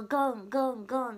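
imitating Okayama dialect ガン, loud and repeated; mock-repeat the Okayama sentence ending. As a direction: punch each Okayama-style ガン. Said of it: "岡山弁なんだって".

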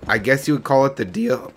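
real crack in the voice at the end. Real, not acted. Player explaining the expansion to viewers, voice cracking. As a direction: let the voice break on the last word. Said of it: "Ooh, voice crack".

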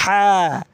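হা breathed hard from the middle of the throat; গলার মাঝখান থেকে হা; throaty ha. Shown as a demonstration. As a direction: push হা out from mid-throat. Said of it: "হা হলকের মধ্যখান থেকে".

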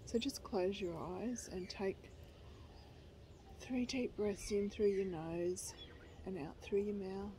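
gentle, even meditation voice; guided meditation. Real, not acted. Leading viewers through a short guided meditation, calm guiding voice. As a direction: guide them calmly, pausing between phrases.

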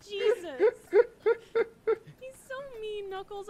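hammed-up sob in the voice; mock crying. Complaining that Sonic is mean, mock crying. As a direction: whine it like fake tears. Fake crying over friend.

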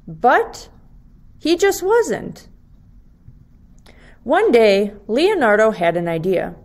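lively storybook reading for second graders; reading to children. Acted. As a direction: read it like story time for little kids. Teacher reads picture book aloud.

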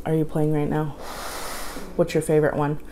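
talking while slurping noodles; words muffled by food; mouth full of spaghetti. Real, not acted. Seen 0: Spaghetti strands held at her lips on fork while she speaks.

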